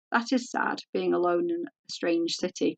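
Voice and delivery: mildly pitying sigh of sympathy; lamenting. Acted. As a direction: Grace gently pitying the lonely guest. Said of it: "Grace lamented".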